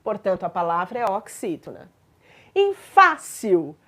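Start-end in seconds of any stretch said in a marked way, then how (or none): 2.7-3.8 teacher's slow demo of FÁCIL, stressed on FÁ; stress on first syllable. Shown as a demonstration. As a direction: stretch the FÁ of FÁCIL, let the ending drop. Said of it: "a sílaba tônica é a penúltima".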